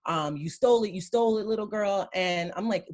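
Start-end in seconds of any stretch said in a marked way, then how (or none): 0.4-2.1 loud high mock scream of a shop owner; retold screaming. Shop owner screaming at a teen girl, loud mock yell. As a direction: yell the accusation shrilly, half-acted. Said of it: "she started screaming".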